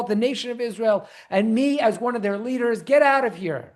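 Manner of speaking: hammed-up outraged rebuke, pitch way up; mock yelling curses. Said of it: "instead of yelling curses at her".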